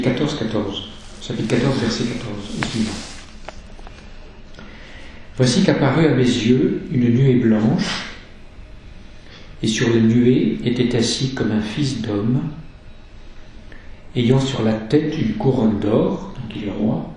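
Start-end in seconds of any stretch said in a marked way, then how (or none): 5.4-16.3 lecture biblique. Acted. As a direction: lecture solennelle et lente de l'Écriture. Reads the Apocalypse aloud. (le prêtre lit l'Apocalypse aux fidèles, lentement et solennellement)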